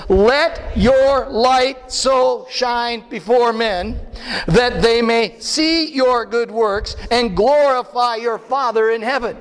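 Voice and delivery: slow, solemn scripture reading. Shown as a demonstration. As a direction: intone the verse slowly. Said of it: "Read on with me".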